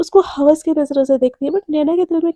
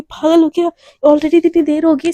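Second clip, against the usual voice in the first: scolding; 3 semitones higher, 5 dB louder than usual. Acted. Naina scolds Shivani over alarm.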